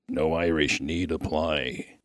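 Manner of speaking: slow, solemn quoted saying; quoted motto. Retold or imitated. Miner quoting his late friend's word, slow and measured. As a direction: quote his word slowly and low-key. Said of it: "His word was".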